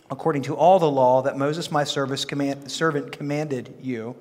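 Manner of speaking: measured, solemn Bible reading; scripture reading. Acted. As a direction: read the Lord's words with weight. Reads scripture aloud.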